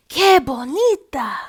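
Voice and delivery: high, loud slow delight; grandma admiring her grandson's bird. A narrator's reading. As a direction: gush over the gift.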